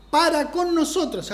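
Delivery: deliberate re-read of one phrase. Shown as a demonstration. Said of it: "lo voy a leer más despacito".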